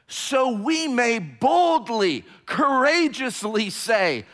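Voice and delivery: loud, high preaching cry; fiery pulpit delivery; full-force preaching. Acted. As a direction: proclaim it to the back wall.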